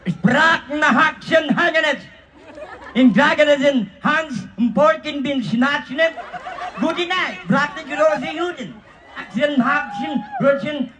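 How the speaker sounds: laughing fake German, some lines slow; mock German. Host calls German, answered with laughing mock German gibberish. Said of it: "German, lingwahe".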